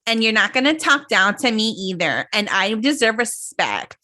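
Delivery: indignant retold demand, slowing at the end; retold demand for respect, mildly heated; imitated confrontational tone. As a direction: mimic her talking back, drawing out the last words. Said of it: "the way she was like".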